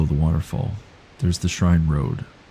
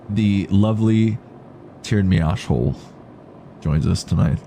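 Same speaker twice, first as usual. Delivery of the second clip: mock announcer intro; 2 semitones higher than usual. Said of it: "funnier if you put a me in there".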